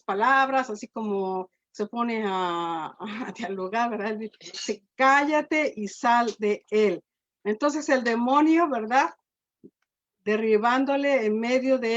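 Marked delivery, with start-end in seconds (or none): 5.0-7.0 slow, firm command, each word weighed; preacher repeating Jesus' rebuke of the demon, slow and firm; commanding Jesus. Retold or imitated. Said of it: "Fíjese con qué autoridad".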